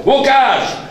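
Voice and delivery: loud high breathless news; boy bursting into his friend's flat; excited shout. A narrator's reading. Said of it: "krzyknął".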